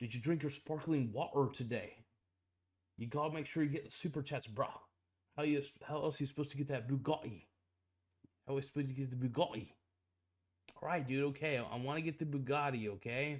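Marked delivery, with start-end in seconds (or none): 0.0-9.7 odd, weird put-on British accent. Chatting with a streamer about getting super chats, in a weird british accent. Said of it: "Can you stop with that weird British accent".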